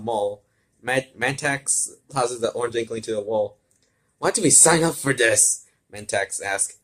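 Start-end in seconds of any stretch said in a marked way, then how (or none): 4.2-5.7 grumbling villain. Acted. Villain Mantax complains in fight.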